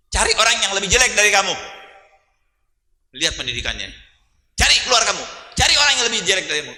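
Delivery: parent's instruction. Retold or imitated. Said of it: "disuruh abahnya apa ibunya".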